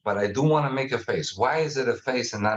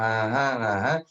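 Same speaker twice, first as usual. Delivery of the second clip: relaxed, lower uh-huh with easy rise and fall; calm non-angry tone; 3 semitones lower than usual. Shown as a demonstration. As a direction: murmur calmly to show you're not angry now. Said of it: "You see how I'm talking?".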